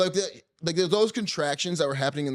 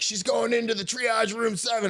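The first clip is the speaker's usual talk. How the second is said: lightly voiced nurse, higher; chirpy staff voice, lightly done; 10 semitones higher than usual. Imitating hospital staff.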